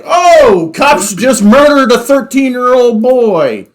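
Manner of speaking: hammed-up outrage at the cops; mock outraged public. Mock public outrage over shooting.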